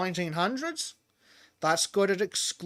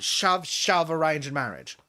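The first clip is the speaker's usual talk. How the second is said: usual speaking voice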